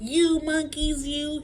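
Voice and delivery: high, loud, drawn-out scolding; cross peddler. A narrator's reading. Peddler scolding monkeys who took his caps, cross and loud. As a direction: scold them loudly, stretching the words. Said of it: "This made the peddler angry".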